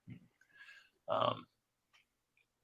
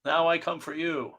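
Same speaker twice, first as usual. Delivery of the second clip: menacing character voice; 6 semitones higher, 3 dB quieter than usual. Acted. Comic character's threat read aloud.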